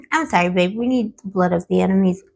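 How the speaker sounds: losing her voice, rough and strained; hoarse voice. Real, not acted. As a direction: talk through a tired, hoarse throat. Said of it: "I'm losing my voice again".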